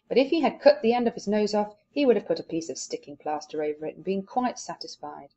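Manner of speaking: lively read-aloud with voices; story reading. Acted. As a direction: read the chapter to the class with character.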